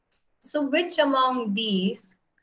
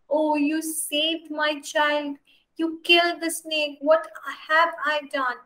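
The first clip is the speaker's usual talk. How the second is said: cried; 4 semitones higher than usual. Acted. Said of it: "she cried".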